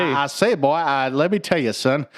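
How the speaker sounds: lightly voiced boastful southern rooster; a hint of Foghorn Leghorn; Foghorn Leghorn impression. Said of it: "foghorn leghorn".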